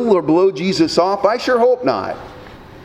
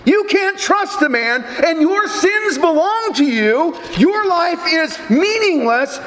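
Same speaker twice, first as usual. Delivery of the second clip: higher, slower voice of the lie, a hint of Satan; 5 semitones higher than usual. Preacher voicing Satan's lie to the mourners, lightly mocking higher voice. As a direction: voice the devil's lie as if whispering doubt, lightly acted. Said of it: "The lie is simply this".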